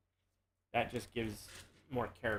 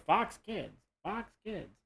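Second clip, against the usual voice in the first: TV jingle announcer; 8 semitones higher, slower than usual. Retold or imitated. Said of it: "then the commercial".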